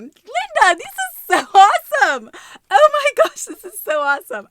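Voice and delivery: high, loud, gushing delight; thrilled cheer. Real, not acted. Vlogger gushing to friend Linda over gift, thrilled. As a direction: gush over the gift at full volume.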